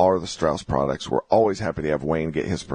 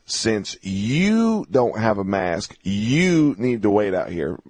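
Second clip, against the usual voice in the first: slow, mildly bossy quoting of the couple; mild imitation of a pushy rider; mock demand; much slower than usual. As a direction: drawl it out like a scold. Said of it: "different levels of aggressiveness".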